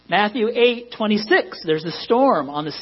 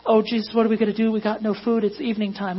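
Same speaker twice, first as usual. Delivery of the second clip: hammed-up fretting disciples; whiny disciples; 3 semitones higher than usual. Disciples whining to Jesus about food, mock panic. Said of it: "I'm trying not to laugh".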